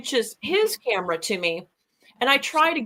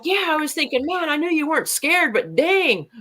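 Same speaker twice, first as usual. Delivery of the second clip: higher, laughing through the teasing; laughing tease; 6 semitones higher than usual. Retold or imitated. Shelly teases him for not flinching, laughing.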